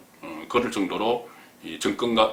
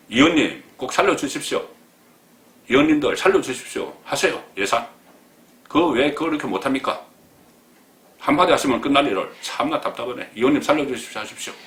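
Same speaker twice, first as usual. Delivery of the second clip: higher, louder whining plea; mocking a pleading official; 5 semitones higher, 3 dB louder than usual. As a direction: ham up a desperate plea for the budget. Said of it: "그렇게 이야기했던 그 박범계입니다". (예산 살려달라고 비는 흉내)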